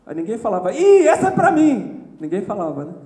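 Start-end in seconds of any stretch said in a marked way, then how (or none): 0.7-2.0 higher, louder, slower laughing cry; playful exclaim. Retold or imitated. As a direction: own up to the sermon with a laugh. Congregant reacting to the preaching.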